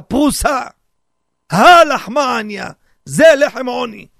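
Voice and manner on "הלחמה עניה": declaimed louder. Shown as a demonstration. Repeating the Haggadah phrase.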